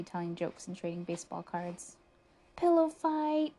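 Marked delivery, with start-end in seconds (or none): 2.6-3.5 high, loud rallying cry; excited shout, pitched well up; storybook scream. A narrator's reading. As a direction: yell it out to start the fun. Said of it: "screamed Buster".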